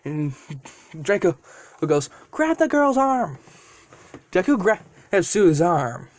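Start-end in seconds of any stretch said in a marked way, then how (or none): 2.3-3.4 commanding dragon. Acted. Dragon giving order in rescue.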